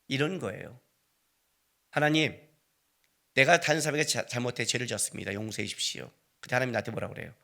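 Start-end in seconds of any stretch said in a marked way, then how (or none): 1.9-6.1 soft, low confession fading away; humble prayer. Acted. Preacher confessing his sin to God, humble prayer. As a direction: confess quietly, sinking softer towards the end.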